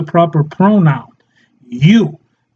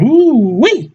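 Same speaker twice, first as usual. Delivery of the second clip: mock admiration; 5 semitones higher than usual. Mock admiring men's muscles.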